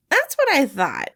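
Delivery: poking fun at a grumpy loner; teasing young man; Remus, cheeky and teasing. A narrator's reading. Remus voiced in story.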